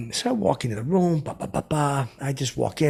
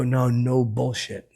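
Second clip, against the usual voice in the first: sincere; much slower than usual. Retold or imitated. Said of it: "I got real with him".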